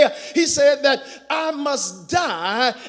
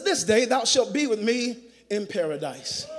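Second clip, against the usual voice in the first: hushed quote; 3 semitones lower, 7 dB quieter than usual. Acted. Hushed preaching of the promise.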